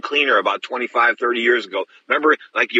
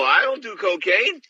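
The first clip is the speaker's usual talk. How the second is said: slow, higher, every word firm; firm refusal; 7 semitones higher, slower than usual. Retold or imitated. Refusing the promoter's cocaine, slow and firm. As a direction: turn it down flatly, spelling it out.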